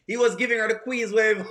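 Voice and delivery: said through a laugh. Real, not acted. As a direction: chuckle while saying it.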